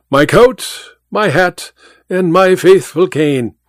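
lightly voiced courteous departing guest; polite request. A narrator's reading. Departing guest asks for his things.

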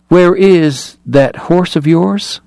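high, slow and deliberate question; stronger, precise diction. A narrator's reading. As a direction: summon strength, place each word precisely. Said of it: "voice became stronger, his diction more precise".

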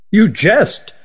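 put-on old magician caught off guard by the request; astonished. A narrator's reading. Old magician hears Renigar wants to join, astonished.

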